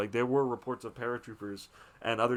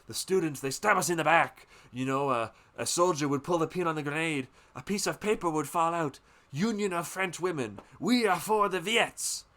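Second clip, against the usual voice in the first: mock-furious, a bit higher and louder, ending in a loud "Traitors!"; furious rant; 5 semitones higher, 4 dB louder than usual. The father rants about the students, building to a shout. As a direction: spit out the betrayal. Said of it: "And he's, he's furious".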